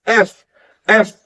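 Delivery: teacher drawing out the friction of "एफ"; F sound demo. Shown as a demonstration. Teacher showing students the F sound, air hissing through teeth. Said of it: "हम बोलते हैं एफ".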